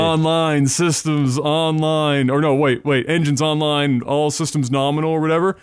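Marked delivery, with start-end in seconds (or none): 0.0-2.3 slow, drawn-out mech computer voice; robot booting up. Retold or imitated. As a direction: announce each system coming online slowly. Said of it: "the startup sequence for the MechWarrior two mechs".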